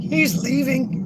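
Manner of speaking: very high, drawn-out squeaky voice; slow mock-upset falsetto; Butters. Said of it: "And then she's gonna be like".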